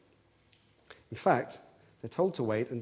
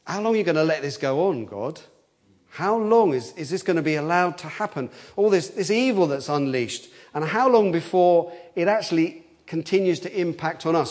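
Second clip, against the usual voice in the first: raised, urgent plea to God; pleading question; 4 semitones higher, 3 dB louder than usual. Acted. Martyrs under the altar asking God, pleading. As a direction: press God for an answer, rising in urgency. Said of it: "asking a very reasonable question".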